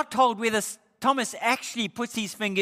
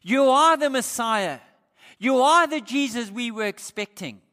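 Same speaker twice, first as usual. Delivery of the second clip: fervent confession; 3 semitones higher, 5 dB louder than usual. Acted. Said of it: "Thomas in one breath confesses".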